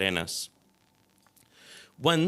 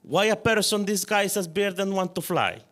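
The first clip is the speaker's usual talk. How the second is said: put-on high, exasperated Croatian-accented question; irritated Croatian accent; 9 semitones higher than usual. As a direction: uncle scoffing at the birdman, Croatian accent. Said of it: "irritated in his rough accent".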